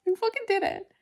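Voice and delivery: high and loud, near tears; shouting the news at two in the morning; real tearful elation; excited yelling. Real, not acted. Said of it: "I have no one to yell at".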